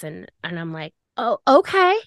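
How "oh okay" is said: high-pitched, puzzled "okay"; retold baffled acceptance. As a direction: agree as if utterly thrown, pitch jumping up. Retold baffled reply to being dumped.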